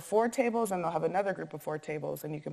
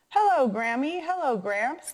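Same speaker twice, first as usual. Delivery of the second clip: higher, raised-voice hello; shouted greeting; 7 semitones higher, 5 dB louder than usual. A narrator's reading. Daughter greets grandparents driving up, calling out higher. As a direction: call out to them as a storyteller would. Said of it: "the Comfort's daughter shouted".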